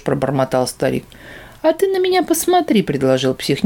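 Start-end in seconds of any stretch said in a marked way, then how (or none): 1.6-2.8 much higher, teasing; insistent. Acted. Demon urges the old man, higher. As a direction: dare him to look.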